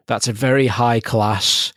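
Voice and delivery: slow, deadpan praise; mock-serious explanation. Host explains Slough to international listeners, tongue-in-cheek. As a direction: spell it out slowly with pretend sincerity.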